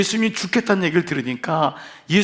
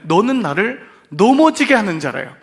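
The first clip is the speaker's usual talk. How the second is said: a firm louder rebuke, 넘어지게 hit hard; raised rebuke; 4 semitones higher, 5 dB louder than usual. Retold or imitated. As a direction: lift the voice on 넘어지게, stern and rising. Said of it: "그러면서 뭐라고 하냐면".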